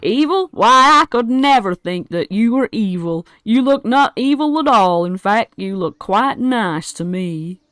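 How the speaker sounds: high, loud sweet-talking goblin; butter him up in a high goblin voice; flattering goblin. Acted. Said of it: "He looks at you and he goes".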